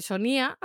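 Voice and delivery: "Sonia" said as so-NÍ-a; stress on the í. Shown as a demonstration. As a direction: move the stress in "Sonia" onto the i. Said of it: "el acento en la I no pega".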